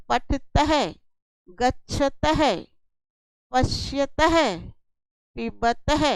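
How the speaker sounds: each of "पठतः, गच्छतः, पश्यतः, पिबतः" ends in a sounded "taha"; visarga pronunciation. Shown as a demonstration. Teacher gives visarga examples, "पठतः, गच्छतः, पश्यतः, पिबतः" each ending in ha. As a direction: voice the final visarga as "ha", word by word with pauses. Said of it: "इसका उच्चारण होता है तह".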